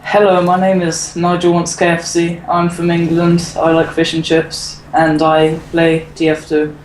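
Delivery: slow put-on English accent; a schoolboy's slow mock English accent. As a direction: play a proper Englishman, slowly. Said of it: "Isn't that a marvelous accent".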